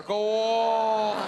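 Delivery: loud goading laugh-line; egging turtle. Retold or imitated. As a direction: shout the dare with a laugh. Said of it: "the turtle's going".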